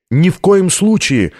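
high, drawn-out refusal; slow, emphatic high-pitched objection; urgent call from above. A narrator's reading. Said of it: "прозвучал откуда-то сверху голос Витории".

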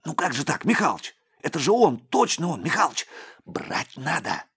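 high, urgent, pleading; excited pleading. A narrator's reading. Young cop pleads with Mikhalych, high and urgent. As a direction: beg to make the arrest now.

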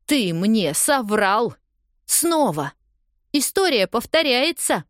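angry accusation. A narrator's reading. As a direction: hurl the accusation at him. Heroine accuses lying boyfriend.

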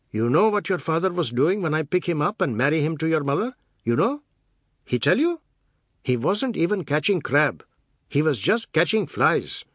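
high, singsong, emphatic grievance; aggrieved Seth, haranguing. A narrator's reading. Seth complaining to the children about their father, aggrieved. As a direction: air your grievance with swooping emphasis.

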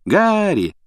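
pleased, high-pitched hello; smiling greeting. A narrator's reading. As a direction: greet him with a big smile. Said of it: "улыбнулся он".

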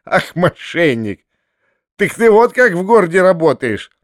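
acted delighted, wheezy teasing; hoarse, choking with laughter. A narrator's reading. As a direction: scold him through suppressed mirth. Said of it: "прохрипел толстяк, захлёбываясь от смеха".

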